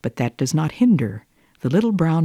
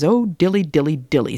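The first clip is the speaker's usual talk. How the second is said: sighing cat; 2 semitones higher than usual. Acted. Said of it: "sighed Simpkin".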